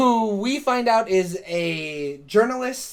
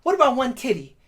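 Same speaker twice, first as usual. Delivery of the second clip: pleading bargaining; 5 semitones higher than usual. Retold or imitated. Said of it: "she goes".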